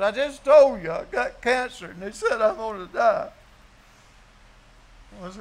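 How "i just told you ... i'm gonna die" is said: higher, lightly voiced frail woman; sick woman's voice. Preacher voicing Bootsy in her hospital bed, lightly tearful. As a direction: play her small and tearful. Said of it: "She said".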